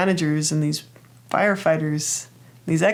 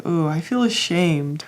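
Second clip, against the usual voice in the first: slow, mild ashamed inner voice; a touch of shame, drawn out slowly; ashamed part. Acted. The ashamed perfectionist answering the fixer, slow and small. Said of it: "the perfectionist is like".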